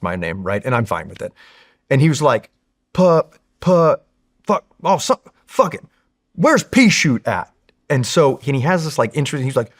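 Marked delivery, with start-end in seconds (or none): 2.9-7.5 gruff gunny voice. Retold or imitated. Gunny struggling with his name.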